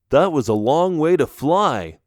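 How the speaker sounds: panting after a long flight; breathless, puffing between words; out of breath. Acted. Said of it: "one of the bats said while panting".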